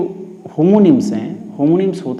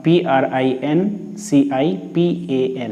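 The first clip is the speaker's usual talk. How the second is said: slow, letter-by-letter spelling; much slower than usual. Shown as a demonstration. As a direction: spell each letter slowly and distinctly for students. Teacher spells the word once more. (एक-एक अक्षर धीरे-धीरे बोलते हुए)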